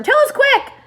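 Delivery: very high loud plea; eager cry. A narrator's reading. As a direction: cry out for the answer. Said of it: "cried the earthworm".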